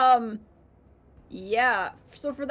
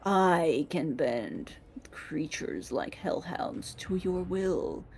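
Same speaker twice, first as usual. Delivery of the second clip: low gravelly growl; 3 semitones lower, 6 dB quieter than usual. Acted. Gravelly creature voice continues.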